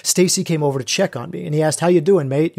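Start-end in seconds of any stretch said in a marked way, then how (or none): 1.8-2.6 lightly imitated English accent; a hint of a friendly English "mate". Facilitator checking on him, mild English accent. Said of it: "in his, you know, English accent".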